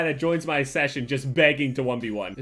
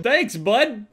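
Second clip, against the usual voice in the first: imitated Canadian accent; 8 semitones higher, 7 dB louder than usual. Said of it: "he has a cool accent".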